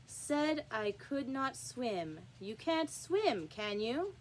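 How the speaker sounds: king's voice. Acted. King reads verses to knave.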